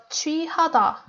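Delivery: "취하다" with the stress on final 다; last-syllable stress. Shown as a demonstration. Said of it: "The stress is on hada, da".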